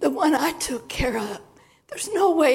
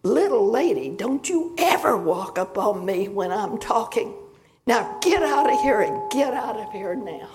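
yelling; 2 semitones lower, 3 dB louder than usual. Retold or imitated. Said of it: "he turns and yells at me".

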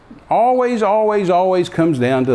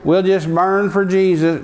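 mock timid; slower than usual.

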